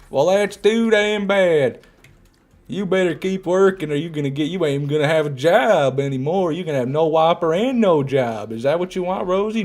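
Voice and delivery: mock boss scolding Rosie about her Whopper. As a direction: play a cartoon boss chewing out a worker.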